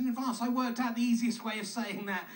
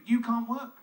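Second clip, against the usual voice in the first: louder mock command to the listener; God's blunt order; 6 dB louder than usual. Comic reading God's list aloud, a mock stern command. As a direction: bark it as a divine order. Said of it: "here's God's list".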